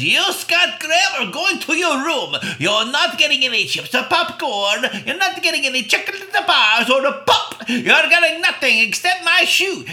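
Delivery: put-on high, loud bossy babysitter voice; mean babysitter. Babysitter scolding the boy, high loud bossy voice. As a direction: order him to his room, high and loud. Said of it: "she says".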